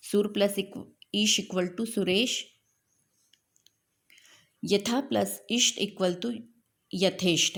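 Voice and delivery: सुरेश drawn out slowly at the end; teacher repeating सुरेश slowly so the class can write it. Shown as a demonstration. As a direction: repeat सुर plus ईश slowly for dictation. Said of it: "यहाँ पे र मतलब अ और ई मिला है".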